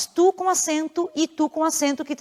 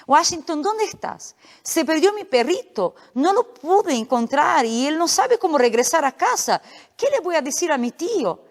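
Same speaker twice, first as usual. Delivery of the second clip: higher-pitched, lightly acted lament; worried dog owner; 4 semitones higher than usual. Comic character searching for his lost puppy, mildly worried.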